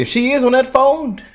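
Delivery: high, disbelieving jab at the phone idea; incredulous. Real, not acted. Mock incredulous aside.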